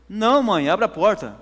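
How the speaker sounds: insistent calling. Retold or imitated. Son at the door answering his frightened mother, loud and insistent.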